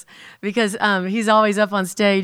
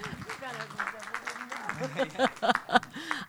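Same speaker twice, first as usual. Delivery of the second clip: quiet, higher-pitched chuckle; soft laugh; 5 semitones higher, 11 dB quieter than usual. Real, not acted. Host reacting warmly to a testimony, soft laugh. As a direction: laugh softly.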